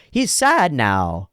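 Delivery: put-on a small kid stating it solemnly; child voice. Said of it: "he goes like".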